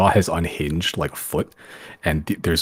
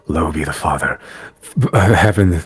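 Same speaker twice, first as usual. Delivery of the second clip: louder fevered preaching, slowing at the end; fevered religious recitation; 7 dB louder than usual. Acted. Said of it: "very fevered, reciting of religious verses".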